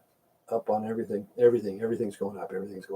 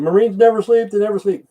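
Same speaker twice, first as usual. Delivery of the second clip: quoting her; 8 semitones higher than usual. Retold or imitated. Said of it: "she said".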